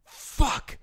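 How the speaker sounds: high, loud, disbelieving outbursts with long gaps; hammed-up man suffering in a toilet stall; strained, drawn-out cries of dismay; imitated bathroom anguish. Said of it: "this guy's just like".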